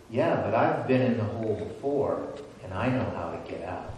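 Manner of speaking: low, softened, knowing reply; calm reassurance. Acted. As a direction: quietly let them know it's handled. Second man reassures the trapped man.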